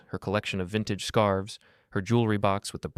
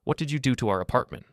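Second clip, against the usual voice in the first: panicked fury; 5 semitones higher than usual. Acted. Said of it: "sharp with panic and fury".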